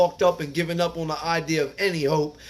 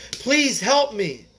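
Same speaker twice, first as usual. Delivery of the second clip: higher, slow, desperate plea; mild retold begging, pitch raised; 4 semitones higher, slower than usual. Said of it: "I was begging this doctor".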